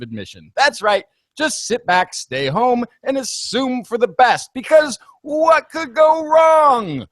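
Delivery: theatrical showman pitch; barking to a passing crowd; carnival barker. Acted. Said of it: "what a wonderful bit of carnival barking".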